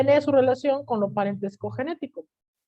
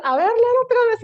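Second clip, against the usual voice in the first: much higher and louder command; teacher loudly demanding she read it again; stern teacher order; 12 semitones higher, 10 dB louder, faster than usual. Retold or imitated. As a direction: bark the order like an exasperated teacher. Teacher ordering her to reread.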